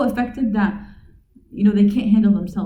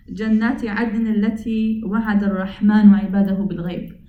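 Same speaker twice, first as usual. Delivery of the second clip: very fast flowing Arabic chant; Quranic recitation; much faster than usual. Acted. Teacher reciting verse sixty-one to his audience, rapid chant. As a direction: recite it smoothly at speed.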